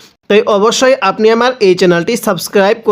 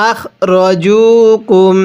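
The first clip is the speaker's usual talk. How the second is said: slow recitation; much slower than usual. Shown as a demonstration. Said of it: "কিভাবে শিখব?".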